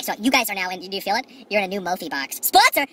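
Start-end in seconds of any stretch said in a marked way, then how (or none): 2.4-2.9 mock announcement. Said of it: "Not sponsor, I paid for it".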